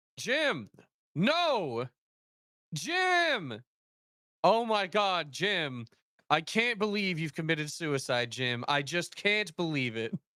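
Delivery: bad, overplayed acting, high and swooping. Retelling a bad actor finding his dead buddy: imitating a flat monotone delivery. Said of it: "In that exact same tone".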